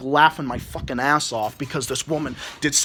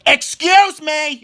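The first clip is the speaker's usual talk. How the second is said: 「Excuse me」を高く大きく、ゆっくり引き伸ばして言う; drawn-out, pointed Excuse me, pitched up and louder; 9 semitones higher, 5 dB louder, much slower than usual. Retold or imitated. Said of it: "And I'm like".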